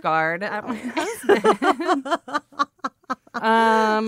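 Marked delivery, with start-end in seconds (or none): 0.0-2.1 laughing while talking. Real, not acted.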